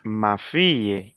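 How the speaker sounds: slow model answer. Shown as a demonstration. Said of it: "Qu'est-ce qu'on utilise?".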